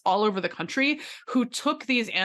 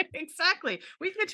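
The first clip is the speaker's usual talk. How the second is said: laughing; 10 semitones higher, 3 dB quieter than usual. Real, not acted.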